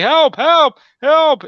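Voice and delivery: high, loud cries for help; screaming for help. Retold or imitated. Stranger in woods screaming at passing rider, loud. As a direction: yell for help like a wounded man. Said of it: "I hear a man screaming for help".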